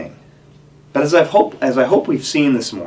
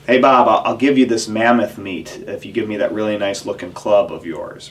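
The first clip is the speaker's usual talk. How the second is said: caveman voice; 2 semitones lower than usual. Retold or imitated. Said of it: "That's my caveman impression".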